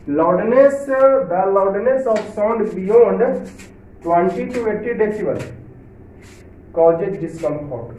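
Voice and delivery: reads the English line aloud slowly, word by word; slow textbook reading. Shown as a demonstration. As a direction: dictate it slowly to the class. (धीमे स्वर में किताब से पढ़ना)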